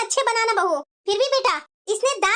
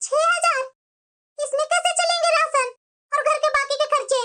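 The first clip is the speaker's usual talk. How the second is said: lightly voiced sister-in-law; 2 semitones higher than usual. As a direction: ask gently, with concern. भाभी चिंता जताती. (ननद से phone पर हाल पूछती भाभी)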